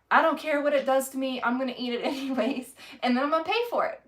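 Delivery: defiant vow to eat it anyway, then a fast giggly finish; imitating her own impulsive cheating, high and laughing; mock reckless. Retold reckless self-talk.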